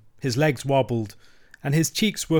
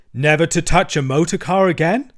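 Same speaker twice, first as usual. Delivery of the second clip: loud, higher, insistent question; stern challenge; 5 semitones higher, 7 dB louder than usual. A narrator's reading. Badger demanding Toad give up motor cars, stern. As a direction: press him, voice rising.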